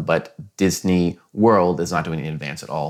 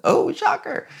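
sarcastic. Pretend. Mock surprise at price rise.

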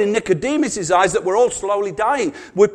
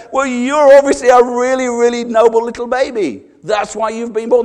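louder, lightly voiced doting midwife; mock praise; 3 semitones higher, 6 dB louder than usual. Preacher voicing midwife to newborn, mock praise. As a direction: fawn over the noble baby.

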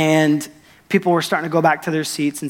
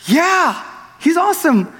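high, laughing, unsure what next; the pastor recalling his own awkward joy, laughing high; laughing awkwardly; 10 semitones higher than usual. Retold or imitated. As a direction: laugh through it, half overwhelmed. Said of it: "you're just kind of like".

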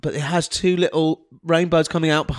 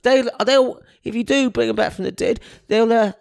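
put-on cheeky scrappy street kid; 3 semitones higher than usual. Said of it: "the little urchin boy".

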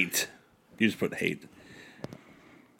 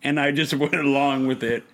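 mock serious apology. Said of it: "Serious face".

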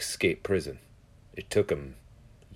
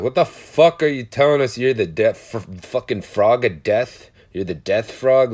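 loud, incredulous imitation of neighbors; mock bewildered outcry; baffled outburst; 6 dB louder than usual. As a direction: act out a confused, indignant demand. Neighbors' baffled reply, acted out.

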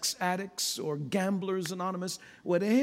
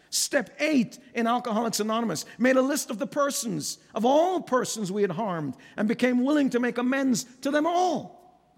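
impassioned preaching; 4 semitones higher than usual. Real, not acted. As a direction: drive each phrase home to the congregation. Preaches at full force.

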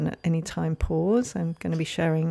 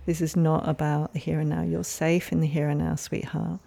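reassuring. Retold or imitated. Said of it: "being able to say, for example, to younger parts".

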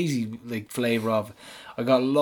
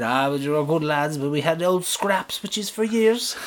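put-on Athlone accent; 2 semitones higher than usual. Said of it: "excuse the accent".

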